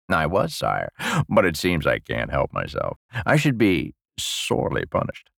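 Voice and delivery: lightly voiced low, sly old man; penitent old lecher. Old prisoner asking the king for punishment, slyly penitent. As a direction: confess low, inviting the punishment. Parfait's character voice.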